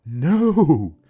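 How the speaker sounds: sharp loud high refusal. Acted. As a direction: cut her off hard. Grandpa refuses.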